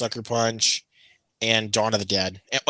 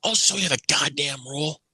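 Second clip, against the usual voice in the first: mildly higher-pitched retold outburst; mock snapping, volume held in; losing it; 4 semitones higher than usual. Imitating the usher finally fed up with the customer, losing it. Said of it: "finally he just lost it".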